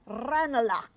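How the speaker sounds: loud tannoy-style call of the stop; booming announcement of the stop; station announcement. Acted. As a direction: call the station name like a platform speaker.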